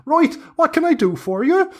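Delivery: high crone sighing over her losses, then cheerful; an old witch turning brightly to her customers; hag, grumbling then chirpy. Acted. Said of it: "She goes".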